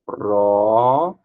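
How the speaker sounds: "Próprio" broken into Pró-prio slowly; teacher demonstrating syllable division; syllable split. Shown as a demonstration. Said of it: "Como é que separa próprio?".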